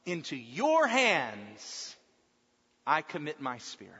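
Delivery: drawn-out cry to the Father, falling away; acted cry of surrender, stretched on "hands". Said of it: "He cries out to the Father".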